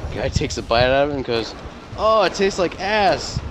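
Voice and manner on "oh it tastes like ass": much higher and slow, hammed-up revulsion; mock disgust. Patron spits out his verdict to the bartender, mock disgusted. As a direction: recoil in disgust, drawn out.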